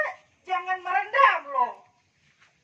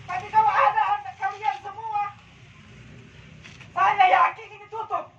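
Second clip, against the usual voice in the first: loud soapbox ranting; 6 dB louder than usual. Real, not acted. Rally speech climax.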